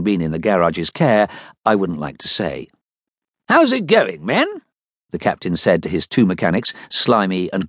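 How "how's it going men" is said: captain's voice. Acted. Captain addressing mechanics.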